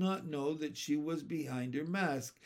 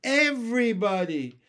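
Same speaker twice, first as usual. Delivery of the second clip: high, loud wail of complaint; tearful; 7 semitones higher, 9 dB louder than usual. A narrator's reading. Teased girl answering her teacher, tearful. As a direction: wail it out, wronged. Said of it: "said Susan tearfully".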